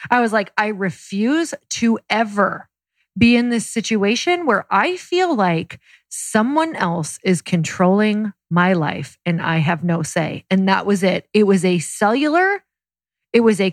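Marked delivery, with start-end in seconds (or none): 0.6-10.5 determined. Retold or imitated. Retelling her determined vow.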